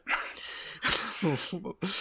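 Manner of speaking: stifled, breathy laugh; real laugh. Real, not acted. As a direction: laugh softly at your own bad joke. Laughs at own bad remark.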